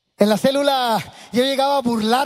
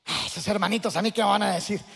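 arrogant mocking; 4 semitones lower, 6 dB quieter than usual. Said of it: "con aquella actitud arrogante".

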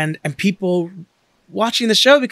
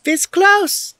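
mock anguish; 14 semitones higher than usual.

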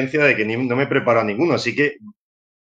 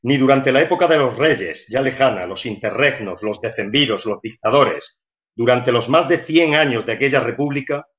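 measured storybook narration, unhurried in places; literary reading voice. Shown as a demonstration. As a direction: read it like a bedtime story for a child. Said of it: "voy a intentar poner una voz, eh, literaria".

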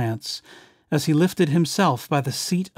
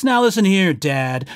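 a louder, higher mock yell; 4 semitones higher, 4 dB louder than usual. Onceler yelling back at the Lorax, louder and higher. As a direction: snap back at the nag. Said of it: "I yelled at the Lorax".

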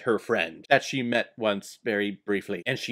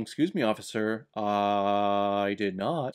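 mock accused man; 5 semitones lower, 3 dB quieter, slower than usual. Acting out Ida and the accused.

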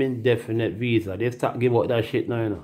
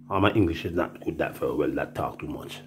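low, softer feigned halting English; mock broken English; 6 semitones lower, 6 dB quieter than usual. Traveller dodging the officer, mock broken English. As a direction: play dumb with the language.

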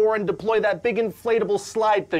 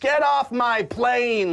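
Harrison Ford impression; 3 semitones higher, much slower than usual. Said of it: "like Harrison Ford in Air Force One".

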